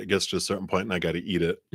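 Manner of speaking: fast, chewing a lozenge; crunching cough drop. Real, not acted. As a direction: mouth full of cough drop. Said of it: "I'm crunching my thing now".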